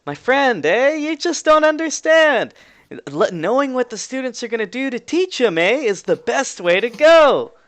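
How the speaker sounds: exaggerated Canadian voice, stretched endings; Canadian accent. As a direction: argue in a high Canadian accent. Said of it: "Canadian accent saying".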